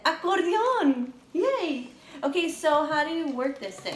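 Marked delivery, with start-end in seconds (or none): 0.0-1.9 drawn-out cheering shout, high and loud; kids shouting. Retold or imitated. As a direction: belt it out slowly like a class of kids. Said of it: "They said".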